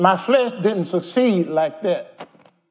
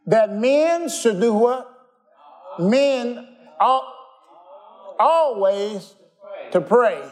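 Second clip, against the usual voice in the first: rising preaching call; 5 semitones higher, much slower than usual. Acted.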